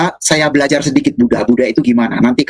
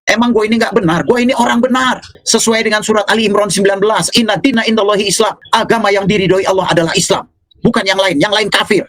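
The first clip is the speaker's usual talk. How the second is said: retold angry rant; 4 semitones higher than usual. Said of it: "Saya marah, saya ngamuk".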